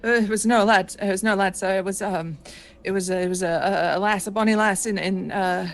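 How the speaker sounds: lightly voiced frightened sailor, pressing; a touch of a haunted young pirate; shaken young gunner. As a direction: refuse like a scared deckhand.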